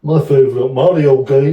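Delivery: lightly done Birmingham accent; slight comic Brummie. Shown as a demonstration. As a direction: have a go at Brummie, ending on a rise. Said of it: "You do a Brummy accent".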